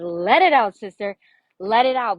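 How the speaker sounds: loud, encouraging call to let go; rousing coach urging a client to cry. Retold or imitated. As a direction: coax her to let it all out, loudly. Urging client to release tears.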